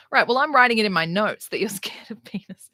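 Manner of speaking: smug, half-whispered imitation; mock psychiatrist. Imitating her psychiatrist, smug and whispered. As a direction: hush it like a smug note-taker. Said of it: "And he's like".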